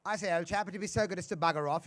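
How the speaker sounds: a mild plummy English insult; posh English. Retold or imitated. Comedian mocking English propriety, lightly voiced posh accent. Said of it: "an English person could say".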